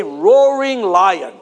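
slow, stretched roaring lion for the crowd to echo; drawn-out call. Shown as a demonstration. Preacher leading the congregation in a call, slow and stretched. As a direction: draw each word out so they repeat it. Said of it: "Everyone say".

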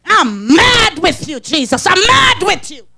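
half-crying, drawn-out complaint; mad Mary. Retold or imitated. Mary wailing her anger at Jesus over Lazarus, half-crying. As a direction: sulk and wail at Jesus. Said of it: "Mary said".

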